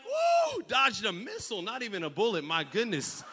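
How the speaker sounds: hammed-up relief; relieved whoop. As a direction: celebrate a narrow escape. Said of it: "you're like".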